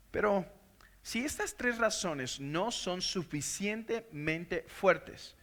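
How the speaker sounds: hushed preacher's aside; quiet aside. Real, not acted. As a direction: lean in and drop the voice. Drops voice for rhetorical aside.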